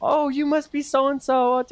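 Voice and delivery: high, gushing squeals of delight; thrilled parents fussing over their child's friends; excited parents. Acted. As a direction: coo over meeting the new friends. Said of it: "they're just like".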